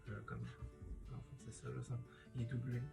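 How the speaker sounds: groggy morning vocal fry; croaky just-woke-up voice. Real, not acted. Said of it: "c'est ma voix du matin".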